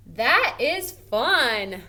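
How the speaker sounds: slow, drawn-out reading of the sentence; slow read-aloud. Shown as a demonstration. Teacher reading the worksheet sentence slowly to students. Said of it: "we're saying it kind of in an excited manner".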